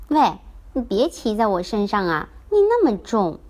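cranky toy grumbling under weight; squashed toy complaining. Acted. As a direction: protest at being sat on. Toys squabbling in toy box.

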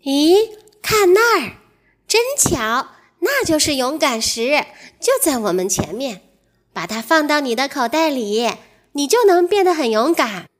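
earnest, lightly voiced giraffe; a mild touch of earnest advice. Giraffe earnestly offers the mouse the brave stone, mildly earnest. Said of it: "长颈鹿认真地说".

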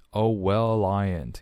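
"well I" joined as "wel-lai"; linked l. Shown as a demonstration. Teacher demonstrating linking for learners, linked pronunciation. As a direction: carry the l of "well" onto "I ain't". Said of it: "用了去连读".

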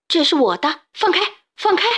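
very high, loud panicked yell; frantic shout. A narrator's reading. Xiaopangdun fights off the invisible chaser, screaming. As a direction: scream to get free. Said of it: "急得大喊".

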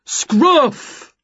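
one sharp, high call; calling the dog. A narrator's reading. Jerry breaking off his apology, calling his dog.

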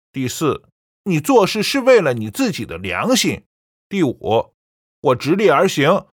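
coolly dismissive, listing points one by one; disdainful. A narrator's reading. Son answering his mother's five questions, cold disdain. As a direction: rebut her coldly point by point. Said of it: "小宝不屑道".

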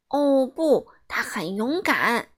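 a crowd setting her straight; chorus reply; loud reply. Acted. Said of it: "他们一起大声回答".

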